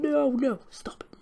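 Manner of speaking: a breathless whispered no; whispered protest. Real, not acted. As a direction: plead in a whisper. Protesting the music.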